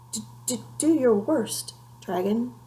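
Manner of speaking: a scared knight trying to sound brave; nervous stammer. A narrator's reading.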